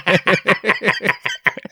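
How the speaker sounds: long high laugh; real high-pitched laughter. Real, not acted. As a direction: crack up at your own joke. Cracks up at own joke.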